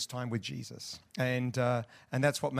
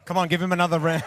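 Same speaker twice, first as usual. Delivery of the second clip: loud, high crowd-rouser; calling for applause; 5 semitones higher, 11 dB louder, faster than usual. Real, not acted. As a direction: shout encouragement to the audience. Calls for more applause.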